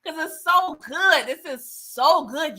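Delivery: high, laughing gush about the movie; laughing excitedly. Real, not acted. Vlogger laughing to viewers about the movie, high excited gush. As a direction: bubble over with laughter. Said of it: "I've been so passionate".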